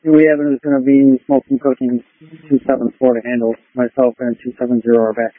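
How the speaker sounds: police radio. Real, not acted. Radio transmission from unit.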